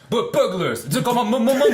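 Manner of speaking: a tailor's mock panic building to a yell; panicked yelling tailor. Tailor shouting to the street about burglars, panicked. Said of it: "screaming at the top of his lungs".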